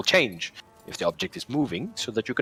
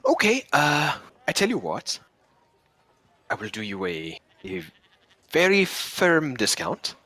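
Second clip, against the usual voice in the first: put-on raised, light Indian accent of a shopkeeper; 6 semitones higher than usual. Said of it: "did the speaker suddenly develop an Indian accent there".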